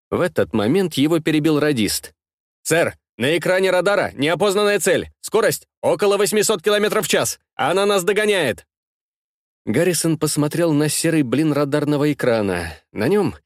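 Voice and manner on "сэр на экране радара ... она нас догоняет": alarmed report. Acted. Operator alarms commander.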